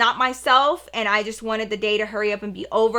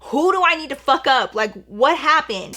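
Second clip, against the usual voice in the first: higher, urgent retold demand; protective anger; 5 semitones higher, 4 dB louder than usual. Brother demands who hurt his crying sister, protectively angry. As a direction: imitate a brother fired up to defend.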